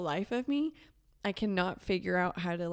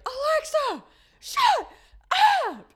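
high, loud yell at Alexa; angry shout; 13 dB louder, slower than usual. Retold or imitated. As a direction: shout it down, fed up. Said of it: "I finally was like".

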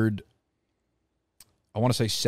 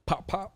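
playful pop sounds; 10 semitones higher, 6 dB quieter than usual. Retold or imitated. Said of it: "So I was like".

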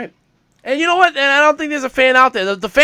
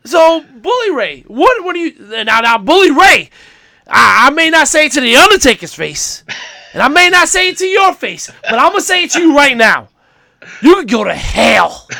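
Vince McMahon impression. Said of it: "I'm imitating Vince".

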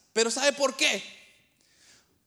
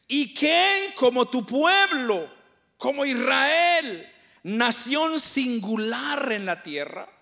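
slow, louder, declaiming each phrase; solemn scripture reading; 4 dB louder, slower than usual. Acted. Preacher reading Second Samuel to congregation, slow and solemn. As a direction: read the verse like a proclamation. Reads Bible verse aloud.

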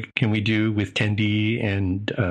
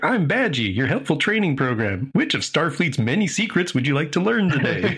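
cheerful program voice; 6 semitones higher than usual. Retold or imitated. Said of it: "they scavenge Badgie, like".

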